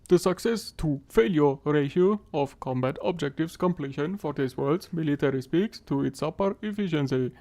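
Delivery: loud, even robot voice. Pretend. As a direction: read it out like a machine. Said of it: "du musst jetzt mit einer Roboterstimme sprechen". (Roboterstimme, laut und gleichmäßig)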